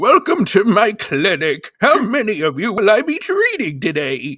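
slow, deliberate, drawn-out, high-pitched delivery. Retelling a cartoon dentist's greeting: Edward voice. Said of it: "I'm channeling Edward".

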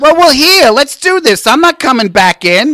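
very high, loud hollering yell. Retelling the mother's demand to go on anyway: imitating mother yelling. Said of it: "she yelled through time".

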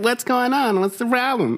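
nasal, very high-pitched smart-guy nerd voice. Retelling what Keith said, in a nasal smart-guy Keith voice. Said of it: "smart guy voice".

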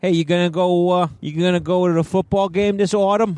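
high mock New York accent on "autumn".

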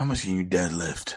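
very low, deep hero voice. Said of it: "why you talking like Batman?".

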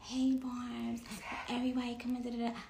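very soft, hushed, barely audible voice. Retelling how others imitate her on live: imitating her own very soft voice. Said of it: "y'all imitate how I be on live".

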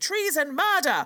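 loud, high, urgent alarmed scream. Retelling the alarm raised during a crown theft: imitating someone screaming. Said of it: "started screaming".

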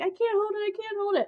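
very high, frantic, desperate yell. Retelling a kid stuck on a ride yelling at workers: imitating a kid yelling. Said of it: "He's yelling at them 'cause he's gotta go so bad".

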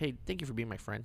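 sleazy, creepy voice. Showing how a creep would say the line: creepy voice. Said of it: "that's something a creep tells you".

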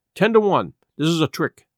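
ordinary delivery

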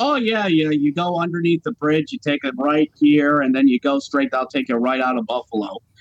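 put-on Fargo accent, swinging up and down in pitch. Retelling a man's words from a trip to Buffalo, in a Fargo accent. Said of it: "making him sound like a guy out of Fargo".

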